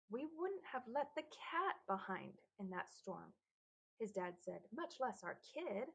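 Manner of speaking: slow, lightly voiced dad; a hint of a gruff father.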